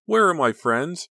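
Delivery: high, loud, slow plea; anguished, drawn-out appeal; crying out. A narrator's reading. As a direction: cry it out in distress, pitch held high. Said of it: "she cried aloud".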